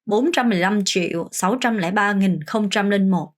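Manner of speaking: a smoother full run, still measured; one fluent pass for the class. Shown as a demonstration. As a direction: read the whole number in one go. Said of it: "좀 스피드가 나올 수 있을 정도로".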